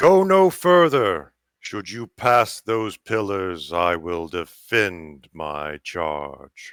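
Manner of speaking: big, deep, booming voice filling the space. An unseen voice warns the party away from the pillars; big booming voice. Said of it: "it's just a big booming voice that fills the area".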